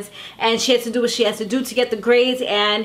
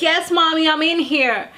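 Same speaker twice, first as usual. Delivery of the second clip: put-on lightly higher, sweet little-girl voice; mock baby voice, a touch raised; 4 semitones higher than usual. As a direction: sweet-talk mommy like a little girl wanting help. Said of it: "You put on this little baby voice".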